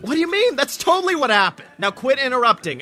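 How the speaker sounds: high, fast, defensive protest; indignant. Acted. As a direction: huff it out, offended. Defensive denial to listener.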